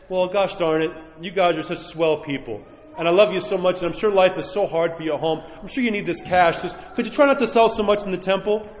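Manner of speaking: lightly voiced, overly nice pushover; a hint of a meek people-pleaser; mock timid Jesus. Priest mocking an overly meek rebuke, gently sarcastic. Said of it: "he doesn't say".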